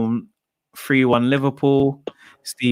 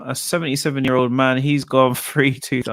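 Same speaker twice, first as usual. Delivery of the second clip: odd quirky way. Retold or imitated. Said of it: "I don't know why I keep saying it like that".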